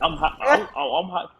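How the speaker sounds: mock excited teen. Mocking teen on phone.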